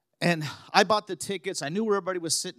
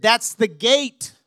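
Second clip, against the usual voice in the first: very nicely; 5 semitones higher, 8 dB louder, much slower than usual. Retold or imitated. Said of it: "So very nicely, very kindly".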